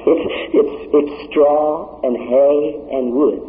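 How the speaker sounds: slow dismissive emphasis; slow, weighty. Acted. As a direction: drag out straw and hay and wood. Preacher slowing for emphasis.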